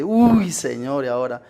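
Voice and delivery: imitating a preacher's slow, worried sigh; Eugenio Macías. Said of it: "Y habla así el hermano Eugenio". (imitando un apuro, lento y alargado)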